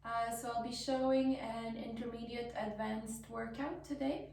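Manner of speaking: slightly hoarse, losing voice. Real, not acted. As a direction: speak through a fading, hoarse voice. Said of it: "I'm losing my voice a little bit".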